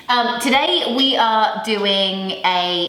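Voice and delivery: winded, catching breath; breathless after dancing. Real, not acted. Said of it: "I'm puffing out all that spinning".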